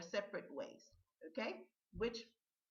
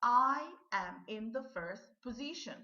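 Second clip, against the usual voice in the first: model sentence, repeated; 5 dB louder than usual. Shown as a demonstration. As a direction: clear and a little loud, stress on I. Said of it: "listen and repeat these sentences".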